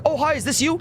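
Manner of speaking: high-pitched gushy imitation of a greeting; mock excited greeting. Mimics players greeting each other.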